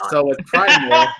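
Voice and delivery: words breaking into laughter; laughing. Real, not acted. Starting her review to cohosts, laughing through the words. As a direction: try to talk through a laugh.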